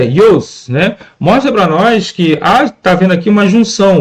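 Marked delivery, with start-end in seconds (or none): 0.0-0.7 "ios" as a single gliding syllable; "ios" said as one syllable; elided pronunciation. Shown as a demonstration. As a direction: show "ios", the vowels of e and os fused. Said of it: "Essa pronúncia".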